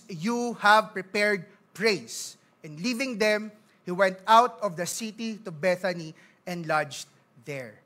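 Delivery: slow, measured Bible reading; scripture reading. Acted. Pastor reading the temple scene aloud, slow and measured. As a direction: read each verse deliberately, letting it land.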